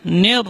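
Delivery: "nir" with the vowel opened to "ner"; "nir" tilted towards an e sound; imalah mistake. Shown as a demonstration. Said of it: "Dia baca imalah".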